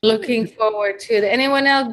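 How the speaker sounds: ordinary delivery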